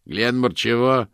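put-on an irritated, slow grumpy old man. A narrator's reading. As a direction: grumble like Homer Simpson's father. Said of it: "раздражённый голос на заднем плане".

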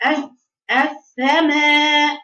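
السماء with the س swallowed, no whistle; weak س in السماء, copying a student's error; imitating a mistake. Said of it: "البنت بتقرأ عليا تقول إيه".

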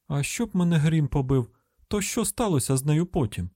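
put-on country-girl phone voice; folksy caller. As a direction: exclaim and ask, pitched a little up.

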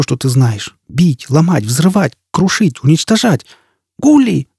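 high-pitched, scornful rant building to a cry; furious woman's tirade. Acted. Jisbella rages at Foyle while lost, furious high tirade. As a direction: lash out with curses and lists of accusations.

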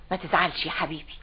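soothing mother. Acted. Mother telling her child not to be upset, soothing. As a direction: comfort the child gently.

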